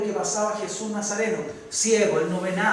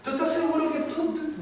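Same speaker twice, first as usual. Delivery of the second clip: doubting flesh; 4 semitones higher, 3 dB quieter than usual. Acted. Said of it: "y la carne dice".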